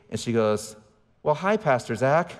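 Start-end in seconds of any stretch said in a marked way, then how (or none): 1.2-2.3 slow, lightly imitated sweet greeting; drawn-out mock-sweet hello; sweet lady. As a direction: lightly voice a sweet gate attendant. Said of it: "sweet lady at the gate".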